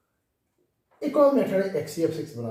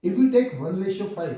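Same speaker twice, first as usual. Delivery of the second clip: slow dictation; 6 semitones higher, 5 dB louder, much slower than usual. Shown as a demonstration. Teacher dictating rule slowly.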